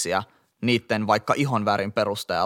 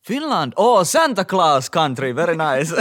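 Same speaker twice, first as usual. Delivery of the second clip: high, louder mock-impressed foreigner; hammed-up polite enthusiasm in English; delighted foreigner; 6 semitones higher, 5 dB louder, slower than usual. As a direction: gush slowly like an amazed tourist. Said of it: "Ja sit multa kysytään".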